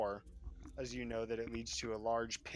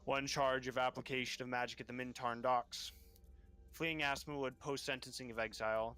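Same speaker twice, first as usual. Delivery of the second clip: raised, building list of crimes; stern magistrate; 5 semitones higher than usual. Acted. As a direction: pile up the charges with rising disdain. Magistrate lists charges.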